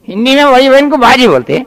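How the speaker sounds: high mocking question; cheeky echo. Boy repeats the tutor's line as a high cheeky question.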